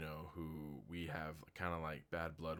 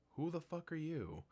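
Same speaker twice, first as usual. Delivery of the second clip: mock Saruman; 11 semitones higher than usual. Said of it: "he'd be like".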